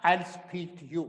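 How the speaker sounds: I'll said with a short L sound; careful demo. Shown as a demonstration. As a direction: say I'll as one clipped syllable. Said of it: "ये एल है".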